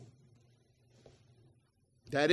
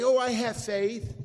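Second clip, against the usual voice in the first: mock complacent Christian; 5 semitones higher, 6 dB louder, slower than usual. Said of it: "like many Christians do".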